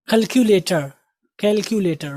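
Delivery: कैलकुलेटर with a clear kyu in the middle; कैलकुलेटर, the teacher's correct form; careful pronunciation. Shown as a demonstration. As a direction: model कैलकुलेटर syllable by syllable. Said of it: "इसमें लोग गलती करते हैं".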